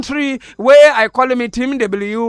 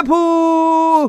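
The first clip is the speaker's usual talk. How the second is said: mock "pooh" exclamation; 6 semitones higher than usual. Clowning host blowing off a slap, mock exclamation. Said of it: "I will say".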